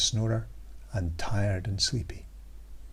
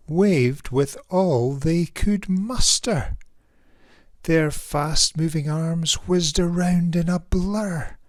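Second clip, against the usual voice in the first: put-on lively read-aloud for children; rhyming storybook narration; story narration; slower than usual. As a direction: tell it like a bedtime picture book. Reads picture book aloud.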